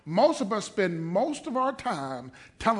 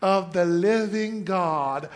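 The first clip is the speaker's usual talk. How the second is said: mock humble. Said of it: "You better quit talking like that".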